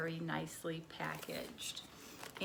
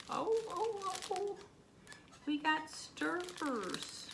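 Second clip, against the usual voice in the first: excited; 9 semitones higher than usual. Real, not acted. Finds stirrers, delighted.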